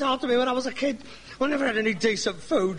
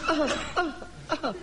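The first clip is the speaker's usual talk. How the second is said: fake cough; 6 semitones higher, 4 dB quieter than usual. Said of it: "I've got a cough".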